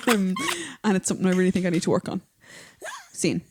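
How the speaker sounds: impression of her friend. Imitating her co-host on a podcast in a deep voice. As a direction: play the friend with a low, steady voice. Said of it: "you have a real deep voice".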